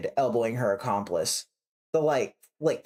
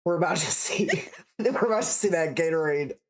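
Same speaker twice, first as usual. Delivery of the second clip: laughing. Real, not acted. Laughing on the lines.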